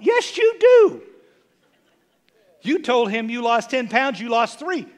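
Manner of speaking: mock scolding. Preacher mocking a churchgoer who fibbed about weight, teasing scold. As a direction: catch them in the lie. Acted back-and-forth argument.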